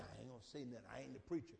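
low, soft, sulky mumble; a pew-sitter dodging speaking up; mumbling excuse. Retold or imitated. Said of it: "We just sit there".

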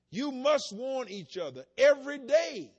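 loud, slow, hammering every word; forceful exhortation. Acted. Preacher urging his congregation, loud and slow. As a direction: drive home the call to warn each other.

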